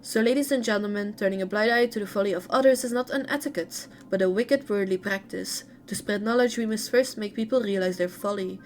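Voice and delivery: lively read-aloud intonation. A narrator's reading. Streamer reading a character's story to viewers, read-aloud narration. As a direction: read game lore out in phrases.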